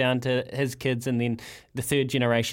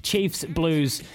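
upbeat radio roundup read; sponsored segment read. Acted. Host reading the sponsored sports guide to listeners, upbeat announcer style. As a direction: sell the weekend fixtures like an ad.

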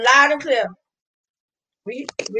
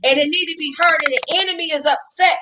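preaching at full force; 2 semitones higher than usual. Real, not acted.

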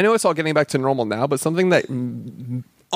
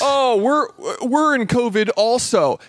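higher, heated fed-up tirade; real rant; 4 semitones higher than usual. Real, not acted. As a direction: vent your irritation full steam. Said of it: "I am so mad".

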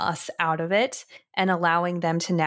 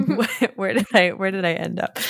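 odd hoarse voice; faster than usual. Real, not acted. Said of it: "why is my voice?".

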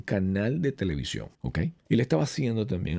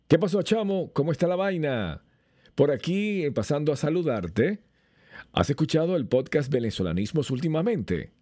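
much higher, bouncy Venezuelan greeting; his own lively take; 6 semitones higher than usual. Shown as a demonstration. Showing how his real voice differs from the clone, lively and high. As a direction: throw it out warmly like greeting a buddy. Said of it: "Ahora lo voy a decir yo. Vean la diferencia".

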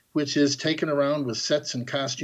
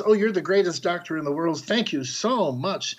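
lightly acted gushing thanks, pitched up; mildly hammed-up excitement, stretching out the thanks; all excited; 4 semitones higher than usual. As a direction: play a touch of grateful excitement. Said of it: "she gets all excited and says".

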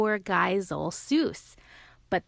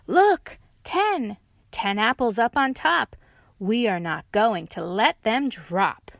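excited triumph; triumphant; 3 semitones higher, 5 dB louder than usual. Acted. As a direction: celebrate the big stack. Ten on top.

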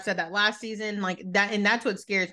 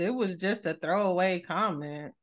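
slow, lower, dismissive mock apology; dismissive Candy; 3 semitones lower, slower than usual. Candy brushing off a castmate, slow dismissive imitation. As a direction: brush it off, half-hearted. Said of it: "Candy, she said".

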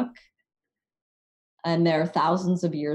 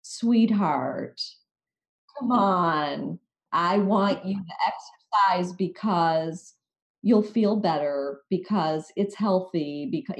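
gentle, slower, coaxing; self-compassionate voice; slower than usual. Retold or imitated. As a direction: coax yourself like a loved one. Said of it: "my self-compassionate voice is".

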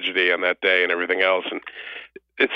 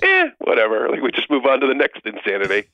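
mock indifferent shrug; 3 semitones higher than usual. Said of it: "Everyone's like".

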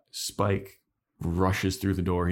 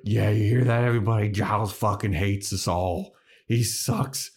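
loud mock-angry rant to the group; pissed off; 3 semitones higher, 4 dB louder than usual. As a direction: play it like a fed-up friend mocking her mentor. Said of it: "And she's, like, pissed".

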